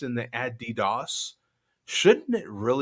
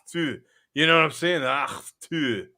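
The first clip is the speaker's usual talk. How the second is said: mock loogie spit. Shown as a demonstration. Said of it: "pulling up the loogie and then acting like you're spitting it".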